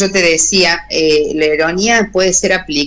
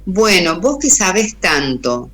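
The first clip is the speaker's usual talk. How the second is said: a slightly raised, sarcastic 'you know so much'; ironic mock praise; 3 semitones higher than usual. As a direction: tease the student with fake admiration. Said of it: "es irónico".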